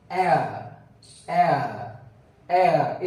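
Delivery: एयर said as e-uh, repeated; careful ea sound. Shown as a demonstration. Teacher drilling the एयर sound, slow and careful. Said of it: "इस तरह से होता है".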